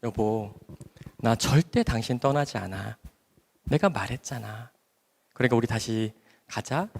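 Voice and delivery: tender, slow reassurance. Retold or imitated. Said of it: "세상 그렇게 다정할 수가 없어요".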